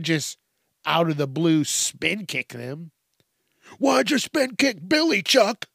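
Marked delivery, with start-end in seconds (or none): 3.8-5.7 higher, indignant question; mock outraged friend. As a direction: friends scolding Chuck for the kick, mock outrage. Friends yelling at Chuck.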